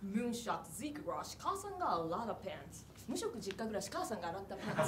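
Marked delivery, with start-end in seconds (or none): 0.0-2.9 quieter fake English take; soft mock English reading. Shown as a demonstration. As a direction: murmur it as English words. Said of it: "英語っぽく".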